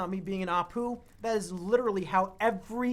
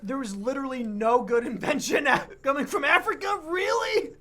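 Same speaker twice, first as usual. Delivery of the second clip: high, louder incredulous question; mock disbelief; 7 semitones higher, 8 dB louder than usual. Teasing the co-host about the list, in mock disbelief. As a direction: ham up the shock.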